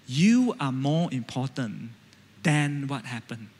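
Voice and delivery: calm inner sentence. Shown as a demonstration. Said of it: "start thinking this sentence".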